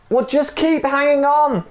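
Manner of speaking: high, steady urging; calm insistence. Acted. Stranger urging from the rope, high insistent voice. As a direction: keep him going. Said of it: "the man said".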